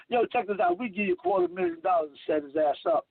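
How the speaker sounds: low, fast voice of a shady fixer; shady conspirator. Retold or imitated. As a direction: make the offer low and quick, like a backroom deal. Plotters offer a bribe.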